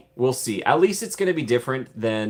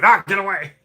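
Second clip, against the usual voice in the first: higher, louder mock panic; panicked Indy; 8 semitones higher, 6 dB louder than usual. Indy shooing away the dinosaur, hammed-up panic. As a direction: yelp it like a spooked hero. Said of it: "And he's like".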